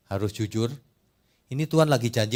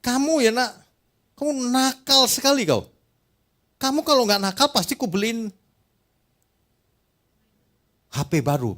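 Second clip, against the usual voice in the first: much higher, louder scolding father; angry father; 10 semitones higher, 4 dB louder than usual. Retold or imitated. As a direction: scold a naughty child as an angry dad. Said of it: "Bapak sama anaknya marah".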